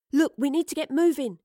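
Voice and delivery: high, pressing urgency; urging. A narrator's reading. Astrid urges the commander to get moving. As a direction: push them to move now. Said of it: "Astrid urged".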